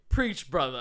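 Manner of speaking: loud, mock Jamaican preacher shout; imitating a Jamaican accent, calling out. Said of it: "he starts talking in a Jamaican accent".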